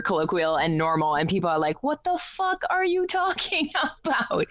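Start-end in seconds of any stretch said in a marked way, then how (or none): 1.8-4.5 high-pitched incredulous imitation; mock bafflement. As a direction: act out baffled listeners, laughing through it. Retold baffled reaction to Canadian slang.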